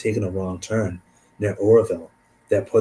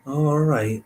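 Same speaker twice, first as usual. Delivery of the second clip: higher, lightly acted giving-in; reluctant agreement; 6 semitones higher, slower than usual. Friends giving in to the detour, lightly reluctant. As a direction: concede with a mock reluctant lift.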